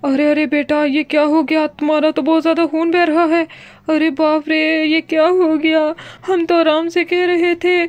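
loud, rushed cries of alarm; alarmed shouting. Acted. Father sees bleeding daughter, shouts in alarm. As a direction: shout in panic at the sight of blood.

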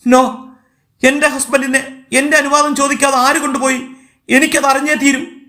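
high-pitched distraught demand; ringing outcry. A narrator's reading. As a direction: protest as a wife demanding answers. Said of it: "മീരയുടെ ഒച്ച ഹാളിൽ മുഴങ്ങി".

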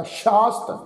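ਸ਼ਾਸਤ with sh first and plain s later; careful teacher's ਸ਼ਾਸਤ as shaast; sh then s in ਸ਼ਾਸਤ. Shown as a demonstration. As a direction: open ਸ਼ਾਸਤ on sh, end on st. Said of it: "ਦੂਸਰੇ ਸੱਸੇ ਦੇ ਪੈਰ 'ਚ ਬਿੰਦੀ ਨਹੀਂ".

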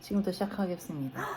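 put-on fast announcer read in an English accent. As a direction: kick off like an English-speaking host. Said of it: "너 되게 미국인 같다". (영어 억양으로 빠르게)

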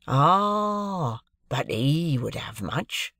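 quick cut-in, then slow; lightly voiced clerk cutting short. A narrator's reading. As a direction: interrupt with a knowing "Ah". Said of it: "cutting me short".

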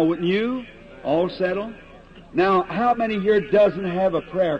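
pressing the point to the crowd, building; earnest preaching. Acted. Preacher urging the audience to get right with God, earnest. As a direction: preach it from the heart, pleading.

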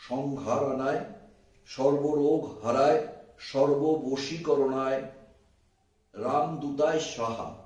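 slow, drawn-out mantra with pauses between phrases; slow dictation. Shown as a demonstration. Teacher dictating a mantra for viewers to write down, slowly. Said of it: "আমি আস্তে আস্তে বলছি".

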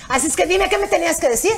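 mildly heated confrontation; retold anger. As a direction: press her for an answer, annoyed. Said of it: "Pero yo ya así enojada".

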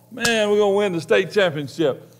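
a preacher cheering at the high school game, excited; excited fan. Retold or imitated. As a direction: hype up the home team. Preacher hyped at football game.

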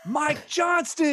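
stunned, stretched-out realization; surprised recognition. Retold or imitated. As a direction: say the name slowly like it just clicked. Teacher realizes who he is.

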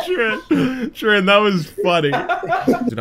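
high laugh running through the words. Real, not acted. Laughing at Trin's joke, giggling through words. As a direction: still giggling while talking.

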